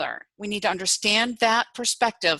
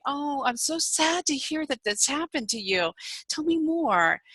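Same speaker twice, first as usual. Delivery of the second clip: gently sympathize with a friend; caring; 6 semitones higher than usual. Acted. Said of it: "Supportive is when I'm empathetic and I'm caring".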